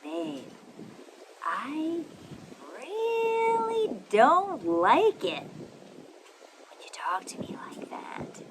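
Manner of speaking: slow, drawn out, rising high then dropping to a whisper; slow with pauses. Shown as a demonstration. Coach demonstrating to a partner, slow with dramatic pauses. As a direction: let each word hang, pause, then breathe the end. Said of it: "One incorporates pauses".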